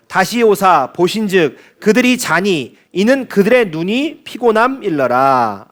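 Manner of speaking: slow, measured congregational Bible reading; scripture reading. Real, not acted. Preacher leads the congregation through the verse, slow scripture reading. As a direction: read the verse out slowly for all to follow.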